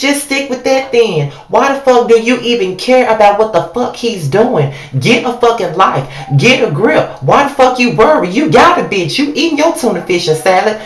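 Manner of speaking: exasperated, heated telling-off; heated rant. Acted. Ranting at Erica about Rich, heated and exasperated. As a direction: chew her out like she can hear you.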